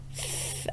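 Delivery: S with the tongue between the teeth; child's lisped S. Shown as a demonstration. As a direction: imitate a child's frontal lisp. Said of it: "Let me hear your S".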